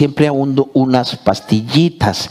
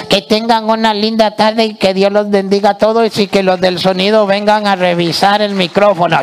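puppet voice; 5 semitones higher than usual. Acted. Puppet farewell, higher.

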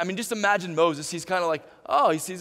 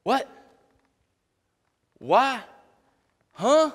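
high, puzzled what why huh; confused double-take; baffled reaction; 7 semitones higher, much slower than usual. Retold or imitated. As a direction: react like it makes no sense. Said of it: "you're gonna go".

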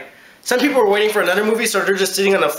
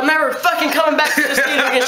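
mock furious; 6 semitones higher than usual. Customer leaving in a rage.

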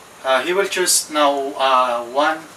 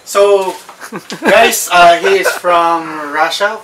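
excited; 3 semitones higher, 8 dB louder, slower than usual. Real, not acted. Host announces excitedly.

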